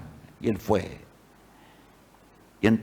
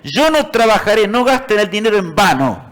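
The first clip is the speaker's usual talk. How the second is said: crying plea; 7 semitones higher, 3 dB louder than usual. A narrator's reading. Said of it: "él lloraba y decía".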